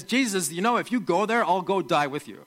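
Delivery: bold, earnest vow to follow; courageous offer. Retold or imitated. Thomas tells Jesus he will go die with him, bold. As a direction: Thomas pledging his life with conviction. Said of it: "I think he's a courageous guy".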